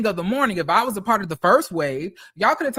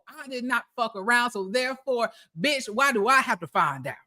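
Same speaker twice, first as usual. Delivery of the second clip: quiet exasperation; 5 dB quieter than usual. Real, not acted. Complaining to followers that he never fucked around. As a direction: drop the voice, disbelieving. Ranting, voice sinks.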